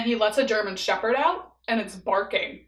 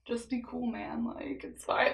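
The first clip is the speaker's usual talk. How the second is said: softer, hushed and unbothered; calm chill friend; 10 dB quieter, slower than usual. Retold or imitated. Chill friend calming scared girl in backseat, hushed. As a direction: soothe her like nothing's wrong. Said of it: "the chill friend".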